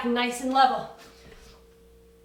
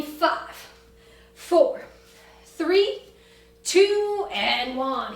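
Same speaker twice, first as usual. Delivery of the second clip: barking countdown; much slower than usual. Real, not acted. Coach counting down loudly.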